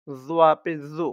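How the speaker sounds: "জু" heavy, made at the upper front teeth. Shown as a demonstration. Teacher contrasting four similar letters, "জু" heavy from the upper teeth. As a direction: bring "জোয়া পেশ জু" from the top teeth. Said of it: "দাঁতের উপরের থেকে উচ্চারণটা আসবে".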